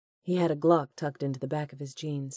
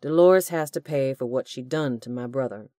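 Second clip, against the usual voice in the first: loud menacing villain; 2 semitones lower, 6 dB louder than usual. Acted. Hugh menacing.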